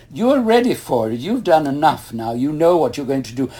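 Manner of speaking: an emphatic retold pep talk; eager urging. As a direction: talk him into it with rising enthusiasm. London officials urge job on him.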